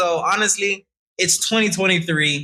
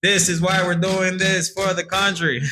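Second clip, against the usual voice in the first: politician voice; 5 semitones higher than usual. Pretend. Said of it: "my politician voice".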